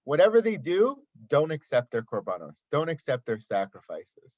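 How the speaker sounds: Moshe burst out in frustration; upset Moshe. Acted. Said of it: "And he says to Hashem".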